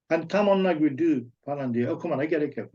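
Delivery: normal talking voice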